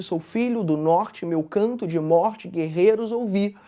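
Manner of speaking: slow, low recital in even cadence; measured poem recitation; rhythmic verse reading. Shown as a demonstration. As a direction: read the verse with a steady beat. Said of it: "de modo a haver uma espécie de ritmo".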